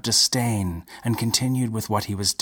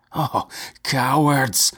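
shriek; 5 semitones higher, 3 dB louder, slower than usual. A narrator's reading. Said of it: "shrieked Geral".

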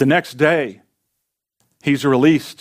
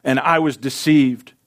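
raised, emphatic cry of complaint to God; anguished complaint; 2 semitones higher than usual. Acted. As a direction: protest to the Lord with mounting force. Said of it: "the change in tone from this faithful man of God".

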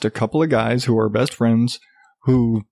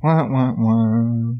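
muffled wah wah talk; 2 semitones lower, much slower than usual. Pretend. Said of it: "I need to come up with a sound for that".

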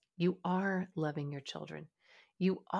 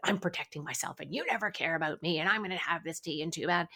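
fearful resentful; faster than usual. Shown as a demonstration. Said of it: "with that fearful energy".

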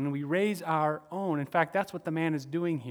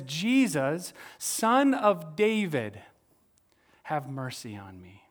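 crying out; slower than usual. Retold or imitated. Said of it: "The man cries out".

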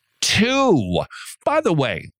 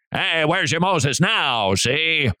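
slow, higher tough-guy gangster drawl; Edward G. Robinson gangster; 4 semitones higher, slower than usual. Retold or imitated. Preacher imitating Edward G. Robinson's Israelite, mock gangster voice. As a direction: sneer it like an old movie gangster. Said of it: "that's the way they talked".

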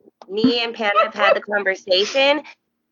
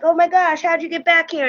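higher-pitched imitated astonishment; acted surprise; 8 semitones higher than usual. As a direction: mimic the amazed musicians. Band's surprised question, acted out.

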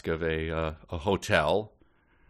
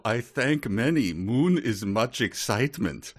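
mock Arabic accent; 4 semitones higher than usual. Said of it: "I said with a smile".

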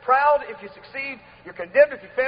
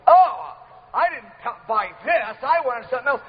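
mock shock; 3 dB louder than usual. Preacher imitating a God shocked at his purchase, mock shock. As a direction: play at being shocked by a bad bargain. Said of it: "He's not shocked".

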